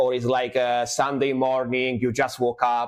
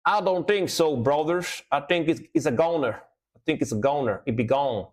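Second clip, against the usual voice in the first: put-on country accent. Streamer joking that a viewer has left, country accent. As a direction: play at an American country accent. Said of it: "doing a country accent".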